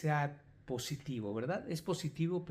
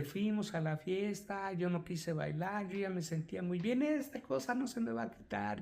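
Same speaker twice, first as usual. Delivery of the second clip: mild retold whimper, climbing higher toward the end; imitated tearful distress; 4 semitones higher than usual. Patient recounts the party to therapist, mildly tearful. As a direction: lightly act an anguished patient, pitch rising. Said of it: "lloraba y pobre, muy angustiada".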